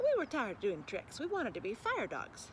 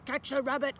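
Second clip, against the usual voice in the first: excited cry; 3 semitones higher, 6 dB louder than usual. Acted. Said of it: "cried Orbot".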